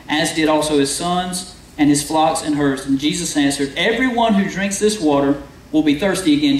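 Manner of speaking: measured, formal reading of the Bible text; scripture reading. Acted. Pastor reading the well passage to the congregation, measured and formal. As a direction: read the verses out to the congregation.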